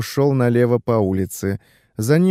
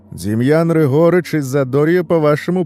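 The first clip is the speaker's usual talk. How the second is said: mock military report; 4 semitones higher, 4 dB louder than usual. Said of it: "шутливо".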